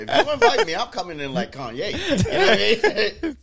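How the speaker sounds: loud laughing joke. Real, not acted. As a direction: laugh while saying it. Joking while laughing.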